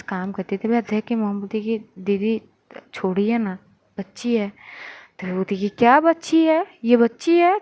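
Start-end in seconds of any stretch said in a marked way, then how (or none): 2.0-4.5 put-on gently smooth it over for her child; mild placating. Mother placates the angry aunt. 5.7-7.6 high, indignant echo with rising end; incredulous retort. Acted. Aunt throws mother's words back.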